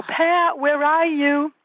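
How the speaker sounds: put-on high child's call to the bird; a little girl calling for her woodpecker. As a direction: lift it up high like a toddler calling. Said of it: "she would go".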